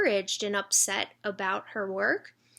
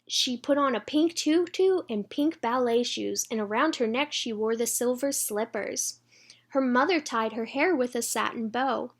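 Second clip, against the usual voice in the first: put-on bright read-aloud for children; storybook reading. A narrator's reading.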